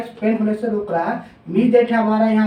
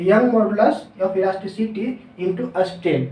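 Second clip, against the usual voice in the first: formula spelled out slowly, word by word; slow dictation; 2 semitones lower, much slower than usual. Shown as a demonstration. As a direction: dictate it slowly so students can write. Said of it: "stress equal to क्या हो गया?". (धीरे-धीरे लिखवाते हुए)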